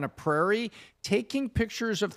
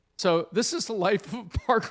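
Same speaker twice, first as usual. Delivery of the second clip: ordinary talk, nothing marked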